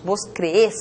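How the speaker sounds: "crees" stressed on its last syllable, cre-ÉS; stress on final syllable. Shown as a demonstration. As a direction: say "crees" as voseo, weight on the final -es. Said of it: "Observa que la tónica".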